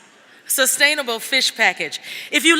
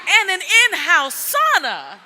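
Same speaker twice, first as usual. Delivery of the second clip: slow, laughing, higher; 6 semitones higher, slower than usual. Real, not acted. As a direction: laugh through the words. Emcee laughing at the sauna.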